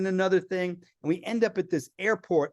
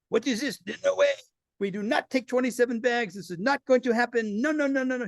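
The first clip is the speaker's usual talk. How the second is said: higher, clipped refusal of a curt airline clerk; stern Belgian clerk; 7 semitones higher than usual. Retold or imitated. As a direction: play the rude desk agent flatly refusing. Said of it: "and the woman goes".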